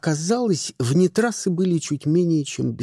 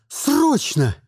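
urgent bark; 7 semitones higher than usual. A narrator's reading. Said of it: "рявкнула она".

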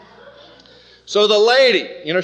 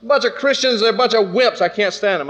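fast, higher, heated scoffing; mock angry rant; 5 semitones higher than usual. Big man at work sneering at Christians, heated. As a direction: spit out the contempt, a bit hurried. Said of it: "He said".

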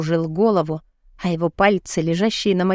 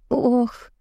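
higher escaped "oh"; involuntary gasp; 5 semitones higher than usual. A narrator's reading. Woman seeing Adam shirtless, gasping. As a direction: let a small oh slip out. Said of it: "вырвалось у меня изо рта".

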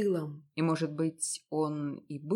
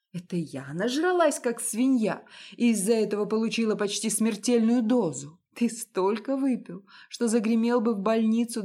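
louder, higher, rising fury; indignant outburst; 4 semitones higher, 5 dB louder than usual. Acted. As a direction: throw every accusation back at him. Wife's indignant rant at husband. (жена гневно отчитывает мужа, громче и выше)

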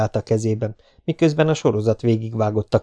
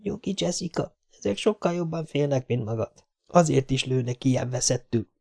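hushed whisper; 4 semitones higher, 6 dB quieter than usual. Acted. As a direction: say it softly, under your breath. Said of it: "odasuttogta a lánynak". (halkan odasúgva)

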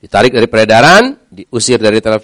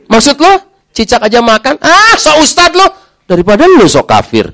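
higher scoffing friend; mocking scoff; 12 semitones higher, 3 dB louder than usual. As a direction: sneer at the new convert. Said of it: "mencaci maki".

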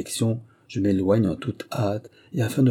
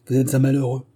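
a sharp, raised reproach; indignant cry; 4 semitones higher, 3 dB louder than usual. A narrator's reading. Célestine rebukes the convict, indignant cry. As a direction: push him away with the words. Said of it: "s'écria-t-elle".

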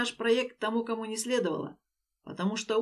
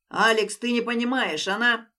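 agitated; 2 semitones higher, 5 dB louder than usual. Acted. Den protests, interrupted.

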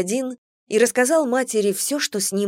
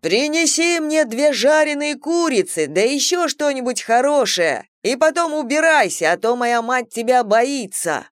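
shouting through cupped hands; 5 semitones higher than usual. Acted. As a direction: yell it out to someone far away. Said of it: "приставил руку ко рту и крикнул".

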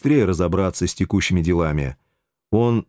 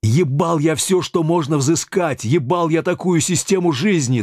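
higher, rising into a fed-up outburst; raised voice; 7 semitones higher than usual. A narrator's reading. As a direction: voice raised in disgust. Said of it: "Тут он повысил голос".

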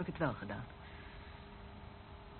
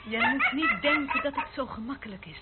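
bitter laughing reply; 5 semitones higher, 5 dB louder than usual. Acted.

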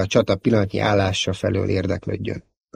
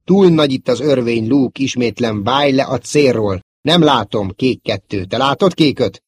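raised, higher-pitched combat call; urgent radio call; 4 semitones higher, 4 dB louder than usual. Acted. Pilot warning Luke off the target, urgent. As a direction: call urgently to your wingmen.

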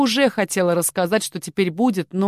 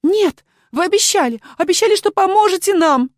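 much higher, louder desperate scream; 13 semitones higher, 7 dB louder than usual. Acted. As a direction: scream in betrayed panic. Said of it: "девушка закричала".

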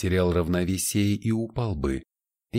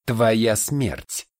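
loud, higher hissed threat; hissing demon; 4 semitones higher, 4 dB louder than usual. Acted. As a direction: hiss the threat at him, louder. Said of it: "прошипела суккуб".

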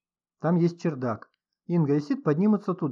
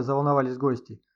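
ordinary delivery

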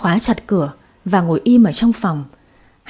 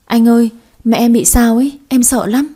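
frightened; 3 semitones higher, 4 dB louder than usual. Acted. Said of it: "Quỳnh đã khóc và gọi điện".

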